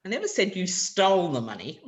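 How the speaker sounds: "said" given the focus; stress on said. Shown as a demonstration. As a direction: lean on "said" in "I never said you stole the money". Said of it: "where I put the stress".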